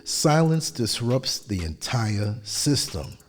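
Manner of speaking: measured, even narration; steady, composed voiceover delivery; polished voiceover read. Acted. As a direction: read it like a calm documentary voiceover.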